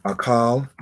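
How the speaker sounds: Akal said slowly and clearly, stress on the second syllable; teacher sounds out Akal for the class; Hebrew word demo. Shown as a demonstration. Teacher shows students how to say Akal, clear and deliberate. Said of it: "in root means to eat".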